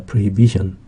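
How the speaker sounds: "prohibition" with the stress on BI, just before -tion. Shown as a demonstration. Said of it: "강세가 있습니다".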